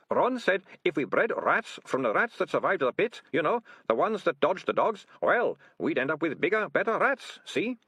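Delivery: high nervous whining excuses; whiny ratcatcher. A narrator's reading. Ratcatcher Two voiced.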